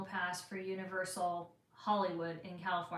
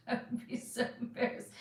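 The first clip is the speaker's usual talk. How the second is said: hushed, faster repeat of "I would be so embarrassed"; whispered repeat; 3 semitones higher, faster than usual. Real, not acted. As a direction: whisper "embarrassed" again, quick and breathless with shyness.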